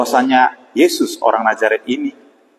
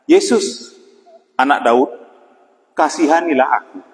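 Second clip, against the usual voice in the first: mild call for mercy, first word pitched up; retold calling out; 2 semitones higher than usual. Blind beggar Bartimius to passing Jesus, mildly calling out. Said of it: "Dan dia berseru".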